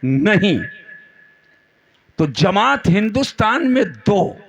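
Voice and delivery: emphatic oratory with held pauses; fervent preaching. Real, not acted. Preacher sets two groups against each other, emphatic sermon oratory. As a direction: lay out each phrase for a big crowd.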